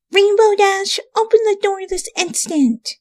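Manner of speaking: high, sharp call to open up; shouted demand. A narrator's reading. Twilight shouts at Rainbow Dash's locked door. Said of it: "she shouted".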